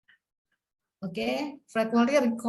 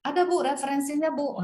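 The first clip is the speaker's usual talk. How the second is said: high, fumbling mock-nervous answer; a touch of panic, stammering to the examiner; flustered student; 6 semitones higher than usual. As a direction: imitate a student caught out. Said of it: "dia gelagapan nih".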